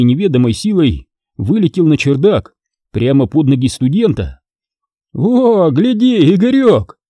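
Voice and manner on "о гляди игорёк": giggling. A narrator's reading. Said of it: "захихикал он".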